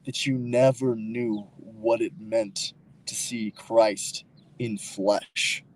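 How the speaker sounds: slow, weighty dramatic pronouncement; solemn, over-dramatic declaration; overly dramatic. Real, not acted. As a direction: draw it out dramatically, with heavy pauses. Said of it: "Am I being too dramatic or something?".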